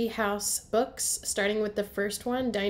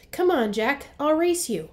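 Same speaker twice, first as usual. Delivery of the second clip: higher, louder eager dare; eager challenge; 6 semitones higher, 6 dB louder than usual. Acted. Annie running off to the woods, eager challenge. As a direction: dare him to race you, bouncing with energy.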